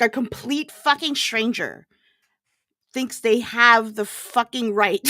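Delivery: ordinary delivery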